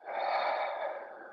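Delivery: long breathy exhale sigh; a release sigh on the exhale; audible sigh. Shown as a demonstration. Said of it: "make some sound at the end in those exhales".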